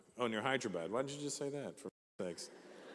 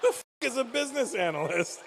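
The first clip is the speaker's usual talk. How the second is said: high, loud incredulous outburst; exasperated disbelief; 10 semitones higher, 5 dB louder than usual. Acted. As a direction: demand it in loud, high-pitched bafflement. Comic outburst of bafflement at job.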